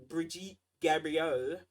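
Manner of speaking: Brigitte Gabriel drawn out slowly and mockingly mispronounced; mocking her name. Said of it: "I'm making fun of her name".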